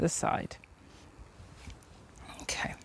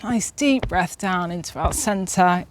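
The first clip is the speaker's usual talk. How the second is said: slow soothing guidance. Acted. Leads a breathing exercise.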